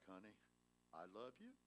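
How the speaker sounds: a lightly voiced sweet wife, soft and quiet; tender, sweet. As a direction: answer him softly, with gentle sweetness. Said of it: "in that tender, sweet, angelic voice".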